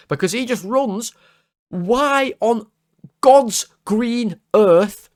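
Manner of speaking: drawn-out, high, baffled complaint; pleading to the heavens at the baffling run; exasperated disbelief. Real, not acted. Fan ranting to viewers about Konate's run, in drawn-out, high disbelief.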